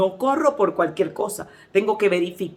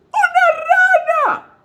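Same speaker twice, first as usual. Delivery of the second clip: very high, loud, drawn-out squeal; imitated shrieking; 5 dB louder, much slower than usual. Church sister answering what happened, imitated terrified shriek. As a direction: shriek it out in hammed-up terror. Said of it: "que comenzó a chillar".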